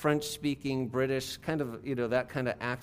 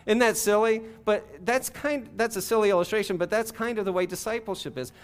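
amused; 9 semitones higher, 4 dB louder than usual. Real, not acted. Amused at own silly illustration.

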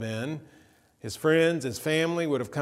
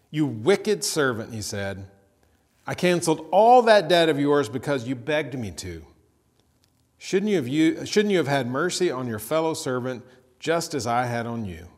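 louder, stern rebuke; angry master; 6 dB louder than usual. Acted. Master rebukes the wicked servant, loud anger. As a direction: scold him hard for his cruelty. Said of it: "In anger".

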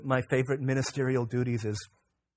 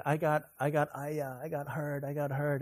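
put-on hurt little boy; 2 semitones higher, 3 dB quieter than usual. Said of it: "And he said".

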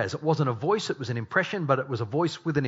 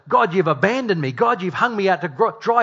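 imitating Paul's complaint; 5 semitones higher, 5 dB louder than usual. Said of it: "if anyone should have felt".

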